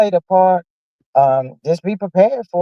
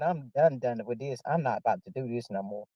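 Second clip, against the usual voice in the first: quiet retold quote; 10 semitones lower, 15 dB quieter than usual. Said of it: "He said".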